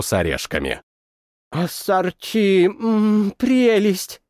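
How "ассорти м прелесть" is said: slow, mouth-full mumble. Acted. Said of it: "пробормотала она с набитым ртом".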